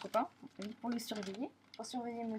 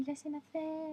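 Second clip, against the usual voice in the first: imitating maid's lisp; 6 semitones higher, slower than usual. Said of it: "elle a un petit cheveu sur la langue".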